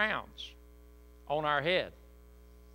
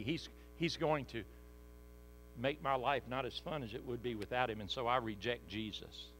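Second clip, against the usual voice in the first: imagined inner voice; 5 semitones lower, 5 dB quieter than usual. Retold or imitated. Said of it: "Because you're saying".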